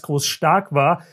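words squeezed out while choking; slow, swallowed the wrong way; choking on a drink. Real, not acted. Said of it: "hab mich verschluckt". (verschluckt, mühsam herausgepresst)

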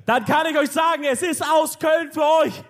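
slow, drawn-out show announcer; hype announcer. Acted. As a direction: build up the big name like a ring announcer. Hammed-up stage introduction. (wie ein Ringsprecher ansagen, langsam und gedehnt)

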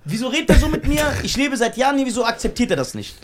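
mildly overdone plaintive retelling; dramatized quote. Retold or imitated. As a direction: play up a friend's hurt complaint. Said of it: "Er hat jetzt ein bisschen sehr dramatisiert".

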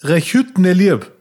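"Rechütnelirb" said slowly as Brillentücher reversed; backwards speech. Shown as a demonstration. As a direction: sound out "Rechütnelirb" slowly and carefully. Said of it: "rückwärts sprechen".

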